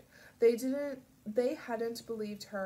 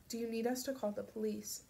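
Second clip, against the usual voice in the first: gently. Acted. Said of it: "she said gently".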